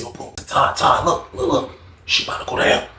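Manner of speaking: retold whisper. Warning friend during card game.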